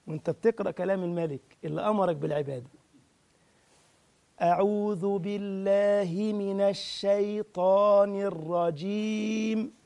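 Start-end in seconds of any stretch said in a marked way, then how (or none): 4.4-9.7 slow, drawn-out tajweed chant; Quran recitation. Shown as a demonstration. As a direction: recite it slowly, letting each vowel ring.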